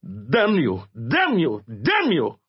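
hysterical frenzy. Acted. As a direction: lose control, on the verge of tears. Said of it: "close to a hysterical frenzy".

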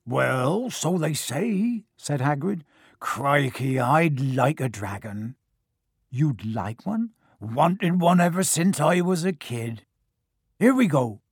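lightly voiced big, bluff giant; a gruff, friendly giant, lightly done; Hagrid voice.

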